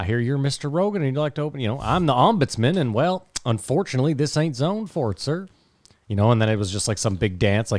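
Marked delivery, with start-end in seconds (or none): 0.0-5.5 bad, put-on, high Southern cowboy accent. Retelling what an ombudsman said when he came up about opening a club: terrible cowboy accent. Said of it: "That was a terrible accent".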